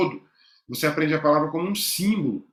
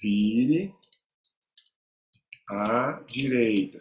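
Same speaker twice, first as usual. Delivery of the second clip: reading the sign; 4 semitones lower, much slower than usual. Shown as a demonstration. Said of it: "Significa isso aqui, ó".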